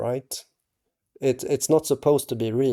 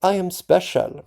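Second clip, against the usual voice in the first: much higher, a lofty proclamation; grand declaration; 7 semitones higher, 4 dB louder than usual. Shown as a demonstration. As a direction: announce it as if anointed. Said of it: "I don't know if I should talk like that".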